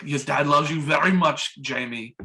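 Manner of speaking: put-on slow Austrian-accented movie dad. Disguised dad reassures his son, Austrian accent. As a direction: imitate an Austrian accent, taking it slowly. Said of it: "he's still talking in an Austrian accent".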